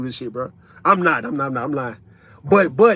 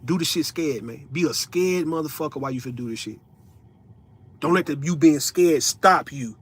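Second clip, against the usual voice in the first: motivational speaker. Acted. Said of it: "talking like I'm a motivational speaker".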